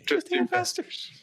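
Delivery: very high-pitched comic yell; mock yelling. Yelling back after being told to stop, mock yell. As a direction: screech it in mock exasperation. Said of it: "God, stop yelling at me".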